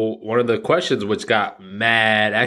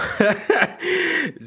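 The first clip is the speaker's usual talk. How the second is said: sudden high-pitched laugh. Real, not acted. Laughs at own quote.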